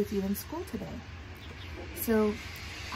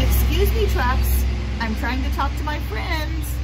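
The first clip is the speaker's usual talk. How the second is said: raised, higher voice over noise; calling out; 6 semitones higher, 9 dB louder than usual. Real, not acted. Teacher scolding noisy trucks for interrupting, calling out. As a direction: call out loudly over the trucks.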